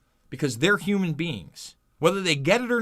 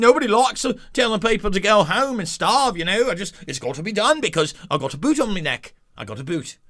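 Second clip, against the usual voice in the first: mock Australian accent, lightly done; a clumsy imitation of the Aussie tradie; half-hearted Australian accent parroting the worker; bad Australian accent; 4 semitones higher than usual. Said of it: "that's a terrible, terrible accent".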